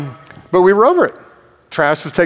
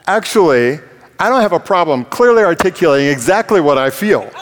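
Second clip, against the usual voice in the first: retold anger; 6 semitones higher, 4 dB louder than usual. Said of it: "I turned around and I, I'm like".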